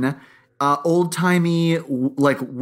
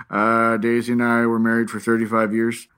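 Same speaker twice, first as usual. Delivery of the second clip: flat husband voice; 6 semitones lower than usual. Retold or imitated. Imitating the husband's flat eulogy.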